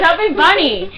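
talking through marshmallows; mouth full. Real, not acted. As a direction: cheeks stuffed, words mushy. Chubby bunny game, marshmallows in mouth.

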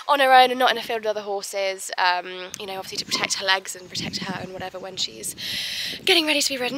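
breathless while walking downhill; out of breath. Real, not acted. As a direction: talk while puffing from the walk. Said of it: "God, I'm out of breath walking down here".

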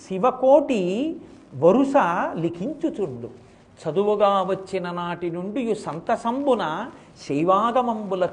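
slow, lilting recital of verse; poem recitation. Acted. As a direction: chant the verse slowly, line by line. (నెమ్మదిగా పద్య పఠనం)

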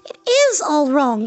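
put-on high, agitated girl's voice; high-pitched protest; upset cry. A narrator's reading. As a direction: cry out in a high, impatient girlish voice. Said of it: "she cried".

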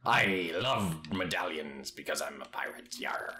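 mock pirate in a whisper. Boasting to a friend about medallions, whispered mock pirate. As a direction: breathe it like a secretive pirate.

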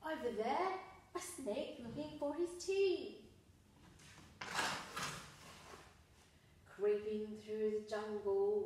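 suspenseful storytime voice; sing-song jungle story read-aloud; reading to children. Acted. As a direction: build mystery for the kids.

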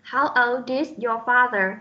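put-on "old is" linked, the D carried into "is"; linked sounds. Shown as a demonstration. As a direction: slowly model "old is" with no break. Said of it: "chúng ta sẽ được nối âm". (đọc chậm, nối âm D vào "is" trong "old is")

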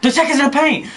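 2 high yell at the ref; 4 sports fan's outraged yell; 1 real outraged yell. Real, not acted. Yelling at the game call.

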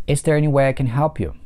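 is there any way I can help you with way and help stressed. Shown as a demonstration. Teacher models stress on way and help. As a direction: lean on way and help. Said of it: "два слова под ударением way и help".

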